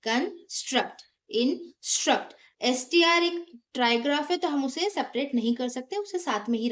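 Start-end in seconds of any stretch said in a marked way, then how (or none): 0.0-1.0 "कंस्ट्रक्ट" broken after कं; split into syllables. Shown as a demonstration. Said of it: "divide करेंगे". 1.3-2.4 "इंस्ट्रक्ट" slowly, broken after इं; split into syllables. Shown as a demonstration. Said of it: "divide करेंगे".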